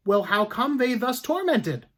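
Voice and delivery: loud, high accusing judge; stern judge. Acted. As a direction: hammer her with each question.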